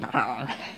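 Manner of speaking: soft, short imitated growl; mock growl. Teasing Matthew about how he can be, a soft mock growl. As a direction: growl quietly, imitating a grumpy friend. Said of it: "Matthew can be a wee bit".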